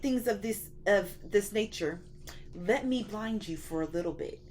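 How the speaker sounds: a hyped-up lightly voiced God. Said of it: "He was like".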